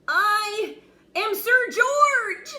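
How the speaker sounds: very high, loud, slow squeak; thin knight squeaking his name; squeaky knight. Acted. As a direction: puff up though tiny. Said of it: "squeaked a thin, shiny knight".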